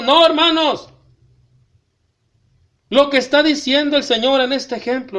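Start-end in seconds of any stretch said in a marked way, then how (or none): 0.0-0.9 emphatic no. Real, not acted. Pastor rejects a bargaining attitude.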